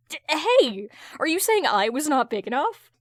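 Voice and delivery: protest, insulted; offended. Acted. Hal offended, protesting loudly.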